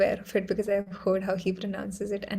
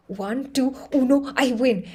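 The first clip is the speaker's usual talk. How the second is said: triumphant call; 3 semitones higher, 4 dB louder than usual. Retold or imitated. Throwing winning card, triumphant.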